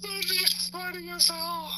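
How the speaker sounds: high, slow, through laughter; laughing. Real, not acted. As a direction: squeal it out while cracking up. Cracking up at own joke.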